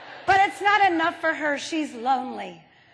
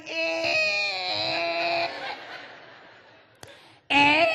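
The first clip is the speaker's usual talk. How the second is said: wiper noise; 3 semitones higher than usual. Retold or imitated. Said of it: "the wipers are going".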